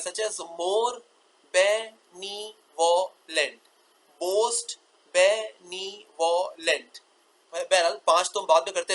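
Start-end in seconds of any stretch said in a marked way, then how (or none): 0.3-3.6 more benevolent as more, be, ne, vo, lent; very slow, each beat of more benevolent separated; five sounds. Shown as a demonstration. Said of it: "चार से पांच में convert हो सकते हैं". 4.2-7.0 most benevolent as most, be, ne, vo, lent; very slow, each beat of most benevolent separated; five sounds. Shown as a demonstration. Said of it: "चार से पांच में कन्वर्ट हो सकते हैं".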